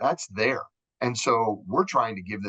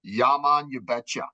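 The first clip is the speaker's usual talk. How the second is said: imitating Jamaicans saying "you betcha"; cheerful mock island accent; light Jamaican lilt on "yeah, man"; 4 semitones higher than usual. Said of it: "they were saying".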